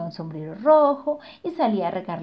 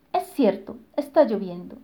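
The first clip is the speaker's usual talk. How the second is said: little chick voice. Acted. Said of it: "dijo el pollito".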